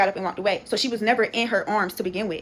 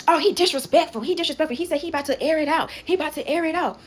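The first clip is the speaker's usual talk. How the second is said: imitated indignation; 5 semitones higher than usual. Imitates relatives complaining about the husband.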